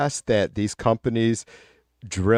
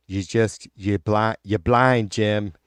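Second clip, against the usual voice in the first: mock Boston accent; slower than usual. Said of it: "that fucked up voice".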